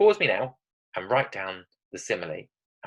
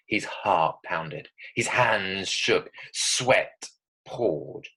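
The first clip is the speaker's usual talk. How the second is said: slow, ominous storytelling with drawn-out words; scary voice; much slower than usual. Shown as a demonstration. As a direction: read short sentences for suspense. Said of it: "read them like that in a kind of scary voice".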